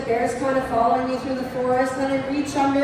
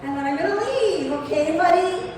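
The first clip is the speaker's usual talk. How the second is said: coaxing; 4 semitones higher than usual. Retold or imitated. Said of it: "I say to the bear".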